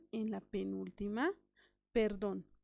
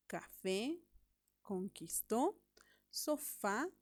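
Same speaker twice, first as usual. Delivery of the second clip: café, conquistó, sofá, each lifted on the final vowel; a spaced word list, café, conquistó, sofá, each rising at the end; stress on last syllables; slower than usual. Shown as a demonstration. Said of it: "en la última sílaba".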